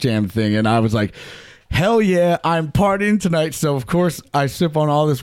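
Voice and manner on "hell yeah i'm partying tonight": pumped-up party cheer. Retold or imitated. Hyped for a night of drinking.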